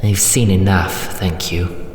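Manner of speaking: matron's mildly disgusted brush-off; understated revulsion, politely final; disgusted dismissal. Acted. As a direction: cut it off with restrained distaste. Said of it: "with a shudder of disgust".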